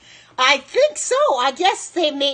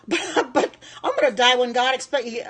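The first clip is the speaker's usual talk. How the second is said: laughing; 3 semitones higher than usual. Real, not acted. Laughing off a troll's comment.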